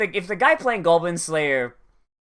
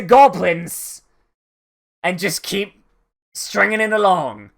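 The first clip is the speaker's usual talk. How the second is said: fed-up DM giving up, louder on Fuck it; exasperated DM; 3 semitones higher, 4 dB louder than usual. Retold or imitated. The DM fed up with his players, loud exasperated venting. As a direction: throw up your hands in loud frustration. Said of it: "you can feel the exasperation of the D M".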